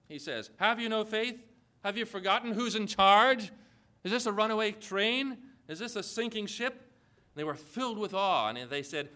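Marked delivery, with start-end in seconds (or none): 0.6-6.7 higher, pressing rhetorical questions; insistent challenge. Acted. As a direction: press each question on the congregation. Presses the quoted challenge on congregation.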